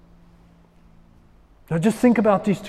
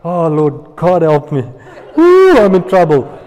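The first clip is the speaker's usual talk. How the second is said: mock panic; 9 dB louder than usual. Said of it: "I've been there so many times".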